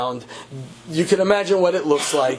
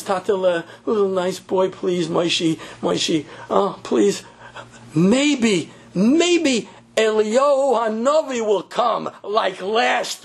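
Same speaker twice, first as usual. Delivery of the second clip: mother soothing; 2 semitones higher, slower than usual. Retold or imitated. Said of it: "His mother says".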